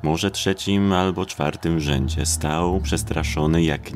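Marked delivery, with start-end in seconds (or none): none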